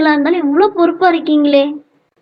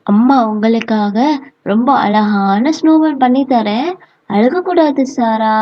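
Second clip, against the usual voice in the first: lower, soothing motherly voice; consoling mother; 6 semitones lower than usual. Acted. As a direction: gently coax a child out of crying. Mother comforts child.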